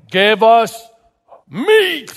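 high-pitched, protesting demand; rioting crowd. Acted. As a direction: chant like an angry mob demanding food. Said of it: "People are rioting".

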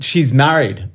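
lightly imitated Irish warning; a hint of an Irish accent. Irishman warns him off the woman, light Irish accent. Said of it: "in an Irish accent".

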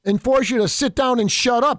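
lightly voiced sneering opponent laying down the law; mild mock of a bossy opponent; mocking the left. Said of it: "because that's what the left does".

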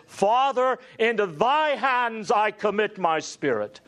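a loud cry read from scripture. Retold or imitated. Preacher crying out the words of Jesus. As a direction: lift the voice high for the cry. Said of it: "crying out with a loud voice".

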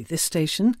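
"this station" with a small lift at the end; mid-list inflection. Shown as a demonstration. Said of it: "three different inflections".

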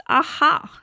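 amused discovery, voice up; surprised aha. Real, not acted. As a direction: react as if finding something out. Realizes there is a Seeds Act.

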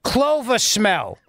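mock governor ad. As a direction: sell the sanitizer like a cheesy TV ad. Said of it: "his governor voice".

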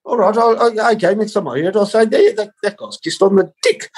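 high, grudging acceptance, slight laugh; a hint of a churchy man humouring him; resigned accountant. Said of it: "He goes".

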